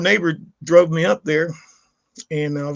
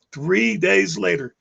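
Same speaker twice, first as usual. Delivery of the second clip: "three days later" stretched out slow for weight; slow repeat; 2 semitones higher, much slower than usual. Shown as a demonstration. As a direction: drag out "three days later" to let it land.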